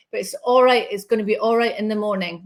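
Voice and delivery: put-on a light, unsure stab at a Northern accent; attempted Northern accent. Medium relaying a man's reassurance to Alison, light Northern accent. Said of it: "I wanna say it with an accent".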